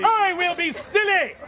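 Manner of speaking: high-pitched grand declaration; exclaiming. Acted. Manservant vowing to act silly, high exclamation.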